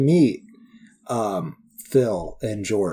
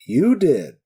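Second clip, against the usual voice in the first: put-on Western accent; 6 semitones higher, slower than usual. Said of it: "Western accent is great".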